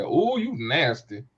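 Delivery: slow drawn-out tease; slow playful tease at a friend's flirty joke; teasing. Retold or imitated. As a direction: stretch the ooh out slowly, ribbing her. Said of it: "I said".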